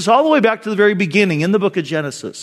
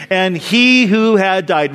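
slow emphatic; 3 dB louder, slower than usual. Shown as a demonstration. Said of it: "Catch that again".

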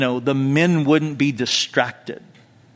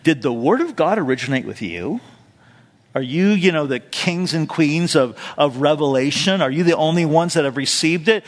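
sarcastic. Retold or imitated. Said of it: "So Paul says rather sarcastically".

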